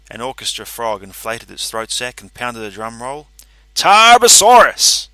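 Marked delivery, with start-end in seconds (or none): 3.7-5.1 high, loud, slow drawn-out name; showman's announcement. A narrator's reading. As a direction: announce it like a circus ringmaster. Announcing the winner.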